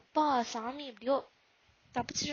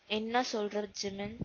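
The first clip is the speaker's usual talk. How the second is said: serious; 4 semitones lower, slower than usual. Acted. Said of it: "madam இப்ப சீரியஸா பேசுறீங்க போலயே".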